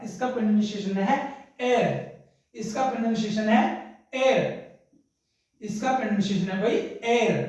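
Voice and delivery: एयर said like air with a silent h; pronunciation of heir. Shown as a demonstration. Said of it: "इसका pronunciation क्या है". (heir का उच्चारण एयर, h नहीं बोलना)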